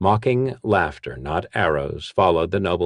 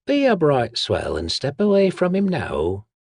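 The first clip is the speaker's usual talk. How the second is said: high, rasping woman's whisper voice; a street thief warning him off in a rattling whisper; lightly rasped high whisper; 9 semitones higher than usual. Acted. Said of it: "someone said in a rattling whisper".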